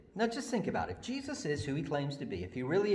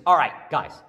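Jesus giving orders; 5 dB louder than usual. Acted. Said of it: "Jesus says".

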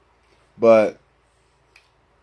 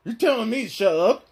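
higher talking-dog voice, affronted; Scooby-Doo; 8 semitones higher than usual. Acted. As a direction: question it like a puzzled cartoon dog. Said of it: "Yes, Scooby".

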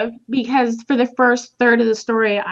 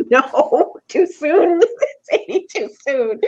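mock scolding; 7 semitones higher, slower than usual. Retold reaction to dark joke.

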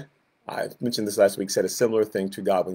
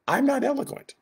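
whiny excuse. Acted. Moses' excuse.

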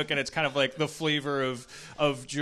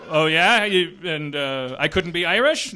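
mock hurt character; 9 dB louder than usual.

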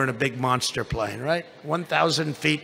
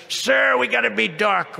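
mock crew urgency; 5 semitones higher, 3 dB louder than usual. Crew member voiced, raised pitch.

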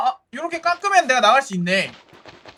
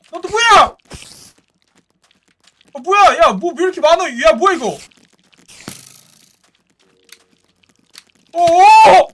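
high, loud alarmed shouts; panicked shouting; 6 semitones higher, 8 dB louder than usual. Real, not acted. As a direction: shout in alarm as mobs swarm. Attacked by mobs at night.

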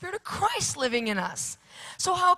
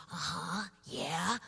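put-on listening child; 5 semitones lower, 6 dB quieter, much slower than usual. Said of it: "he goes like this".

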